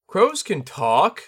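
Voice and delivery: put-on high, slow young boy; a confident little boy; child voice. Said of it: "claimed one of the children".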